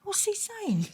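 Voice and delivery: a baffled, outraged rising protest; incredulous. Retold or imitated. She retells her shock at her dad's words, high and disbelieving. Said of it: "coming out that dream thinking".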